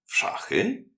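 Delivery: a surprised host leaping at a game; Pescatini's voice. A narrator's reading. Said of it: "dodał signor Pescatini".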